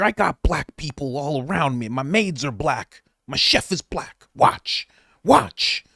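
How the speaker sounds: lightly voiced Biden impression; Joe Biden impression. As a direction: ramble like a confused old president. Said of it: "After you do a Joe Biden impression".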